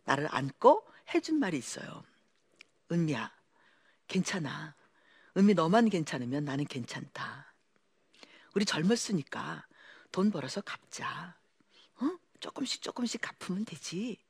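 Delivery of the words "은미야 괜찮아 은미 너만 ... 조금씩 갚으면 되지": soft, hushed comfort, partly whispered; tender reassurance. Retold or imitated. Husband comforting his frightened wife on the street, soft and tender. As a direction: hold her and soothe her quietly.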